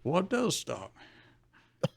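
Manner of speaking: soft, slow pondering; understated musing, as if to oneself; thinking to himself. Acted. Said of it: "Rayford thinks to himself".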